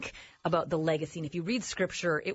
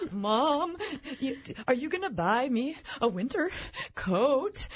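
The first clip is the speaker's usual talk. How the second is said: lightly voiced tearful three-year-old, a bit higher; mock weepy toddler; 4 semitones higher, slower than usual. Mother mimics her daughter weeping over a winter coat, lightly whiny. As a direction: imitate a dramatic little girl whining about her coat. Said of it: "weeping like".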